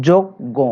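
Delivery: "যোগ্য" broken as jog... gõ; doubled G, nasal O. Shown as a demonstration. Teacher reveals the resulting pronunciation, "যোগ্য" as jog-gõ. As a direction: say "যোগ্য" in two parts, ending on nasal o. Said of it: "গ ওকার চন্দ্রবিন্দু কেন পেলাম".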